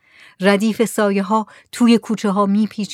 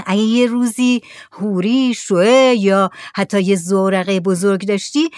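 lightly voiced Saleh, higher, explaining; patient villager; 4 semitones higher, 3 dB louder than usual. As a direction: explain the broken lamp patiently.

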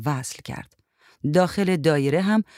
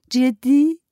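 raised, louder questioning "جدی؟"; surprised question; 10 semitones higher, 7 dB louder, much slower than usual. A narrator's reading. A woman checks on the news, surprised question. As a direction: ask it high and incredulous.

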